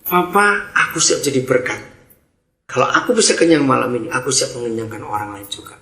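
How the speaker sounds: sincere prayer. Shown as a demonstration. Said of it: "Doanya gini".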